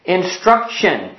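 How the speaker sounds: "Instruction" slowly, in three clear syllables; sounding it out. Shown as a demonstration. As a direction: model "Instruction" slowly for a learner. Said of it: "sound it out with me".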